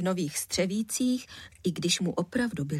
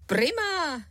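put-on higher, bright boyish answer; a boy pleased with himself; boy's eager reply; 8 semitones higher than usual. A narrator's reading. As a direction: chirp it happily. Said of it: "přikývl chlapec".

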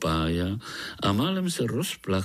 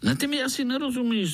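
high, fast, grinning quip; amused mosquito voice; grinning tease; faster than usual. Acted. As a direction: tease him with a grin. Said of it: "zubil se komár".

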